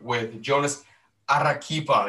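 Arequipa with a trilled R; rolled r. Shown as a demonstration. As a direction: roll the R in Arequipa. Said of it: "I rolled the R there".

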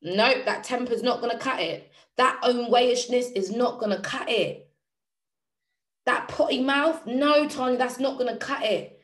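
firm, insistent telling-off; self-scolding. Acted. Speaker telling themselves off for bad habits, firm scolding. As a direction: reel off each fault with a firm refusal.

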